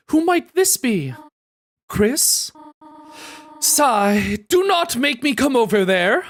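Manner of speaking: high, stern mom on the phone. Acted. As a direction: play the mom scolding her kid. Voicing mom character.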